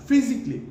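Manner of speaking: ফিজিক্যালি in three syllables, "FIZ-ik-lee"; high "FIZ" in ফিজিক্যালি; correct pronunciation. Shown as a demonstration. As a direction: skip the "ka" in ফিজিক্যালি. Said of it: "ফিজিক্যালি না".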